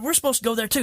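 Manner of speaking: imitating Ken. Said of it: "He said".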